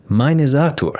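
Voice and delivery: Artur with stress on the -tur; stress on second syllable. Acted. Man introduces himself to two students, Artur stressed on second syllable. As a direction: put the weight on the end of Artur. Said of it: "with the stress on the second syllable".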